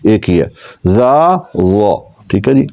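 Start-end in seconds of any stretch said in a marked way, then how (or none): 0.9-2.0 زا light, ضا full and heavy; thin zaa, thick zaa. Shown as a demonstration. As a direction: alternate زا and ضا. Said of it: "ضا میں آواز موٹی ہوئی".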